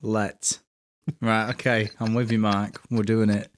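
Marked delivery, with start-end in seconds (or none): 0.0-0.6 "Let" for lit, with an E sound; Welsh vowel change. Shown as a demonstration. Learner copying co-host, lit as "Let". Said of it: "Lit would be let".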